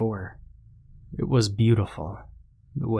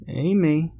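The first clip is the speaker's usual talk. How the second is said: high singsong call; taunting; 8 semitones higher than usual. A narrator's reading. Pursuer calls to the hidden girl, taunting. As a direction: call the name teasingly, pitched up. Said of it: "he taunted".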